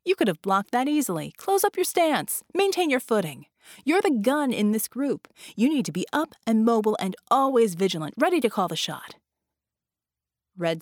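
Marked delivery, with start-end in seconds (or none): 0.0-9.2 scolding coach. Acted. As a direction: drill the student hard. Coach scolding a student fighter.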